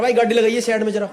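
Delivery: put-on a light blunt Haryanvi accent; lightly voiced Haryanvi tough guy, a blunt order. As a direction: Haryanvi accent, a stranger ordering him to pull over. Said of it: "एकदम खड़ी हरियाणी में बोला".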